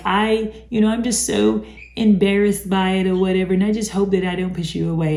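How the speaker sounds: lightly voiced, quick needy confession; a hint of a clingy lover fishing for reassurance; mock needy voice. Narcissist pleading to a new partner, lightly mock needy and fast. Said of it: "I have to say it in that voice".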